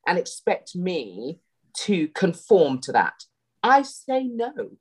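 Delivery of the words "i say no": firm, slow, code-switched "I say no"; code-switched accent. Real, not acted. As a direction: drop into a home accent. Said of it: "did we just code switch there".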